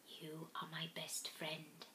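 breathy whispered reply; whispering. A narrator's reading. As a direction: whisper it back tenderly. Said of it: "I whispered back".

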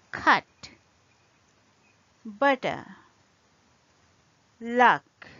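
"cut," "butter," "luck." each with a full stressed uh; wedge examples. Shown as a demonstration. Teacher lists example words with the full wedge vowel. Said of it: "wedge is a full vowel, as in".

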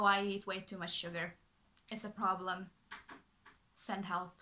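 sugar said flatly, serious, no joke; dead serious. Shown as a demonstration. Correcting viewers who think it's cute, dead serious. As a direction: restate it as a real problem. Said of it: "but no".

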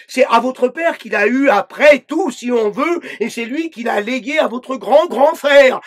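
scolding inner voice. Acted. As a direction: lecture her like a harsh inner judge, barely acted. Inner dictating voice scolds again.

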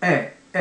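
"A" as a held open "eh". Shown as a demonstration. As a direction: say each A as English "eh", apart. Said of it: "Eのところを".

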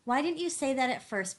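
loud, high-pitched angry outburst; near-frenzied anger. A narrator's reading. Bigger rounding on Gus, almost frenzied with anger. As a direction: explode at him in exasperation. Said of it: "His anger amounted almost to frenzy".

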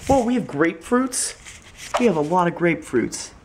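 high-pitched, excited exclamation; pleasant surprise. Real, not acted. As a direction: blurt it out like a sudden happy find. Spots grapefruits unexpectedly.

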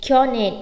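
"Kyonen" with a short o; correct short vowel. Shown as a demonstration. Teacher repeating the correction, "Kyonen" with short o. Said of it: "phải là kyonen".

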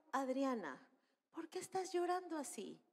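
softly voiced, gentle question; hushed motherly concern; tender mother. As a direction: ask a crying child, softly. Mother questions her crying daughter.

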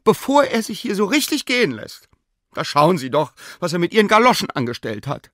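high, indignant complaint. A narrator's reading. Sina complains to the professor about the dog, indignant. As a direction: demand punishment, outraged. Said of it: "sprach Sina empört".

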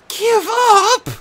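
put-on high, loud stunned boy's question; heartbroken. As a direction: disbelief breaking into hurt. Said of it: "He sounded heartbroken".

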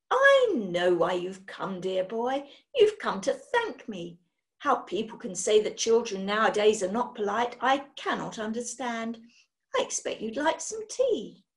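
lightly voiced brisk, eager lady; a gentle hint of a gushing schoolmistress; hockey-mistress witch charming her guest. Witch speaks to Daniel.

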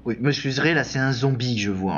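normal talking voice

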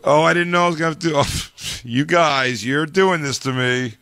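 high, rushed flustered mock contestant; flustered contestant, fast. Mimicking Miss India caught off guard, flustered. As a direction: babble it out in a fluster, fast then slowing. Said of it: "She goes".

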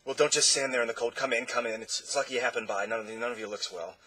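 fast, lightly croaked words; croaking. Acted. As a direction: hurry them inside in a croaky patter. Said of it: "in a strange, croaking way".

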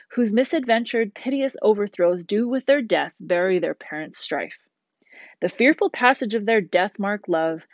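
measured, dramatic recitation of verse; poem reading. Shown as a demonstration. Teacher reading the prologue aloud to class, dramatic recitation. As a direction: read the prologue like a stage poem. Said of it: "I'll read it first".

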